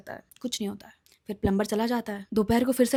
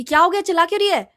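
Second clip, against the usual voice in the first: alarmed mom; 6 semitones higher, 9 dB louder, faster than usual. Retold or imitated. Mom rushes down asking.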